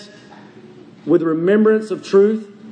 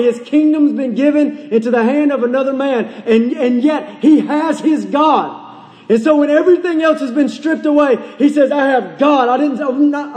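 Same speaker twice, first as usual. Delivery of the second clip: fervent preaching; 5 semitones higher than usual. Acted. Preacher declaring God is his glory, fervent preaching. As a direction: preach it with raised, driving fervour.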